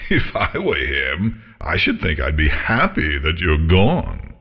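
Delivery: scornful she-dragon, fed up; haughty dragon voice. Acted. Dragon taunts with a chuckle.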